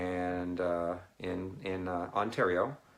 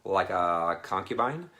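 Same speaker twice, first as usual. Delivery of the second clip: louder, stunned disbelief; surprised question; 4 dB louder, slower than usual. Retold or imitated. Talking to a woman from China, surprised. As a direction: gasp it out like you can't believe it. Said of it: "And I'm like".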